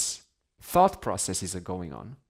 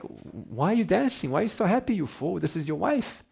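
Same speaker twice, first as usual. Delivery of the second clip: indignant policeman; 8 semitones higher than usual. Retold or imitated. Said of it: "he's like".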